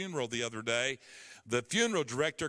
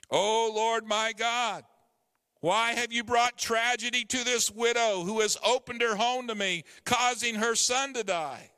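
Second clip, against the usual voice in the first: crying out; 5 semitones higher, 4 dB louder than usual. Acted. Elijah crying out to God over the dead child. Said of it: "Then Elijah cried out".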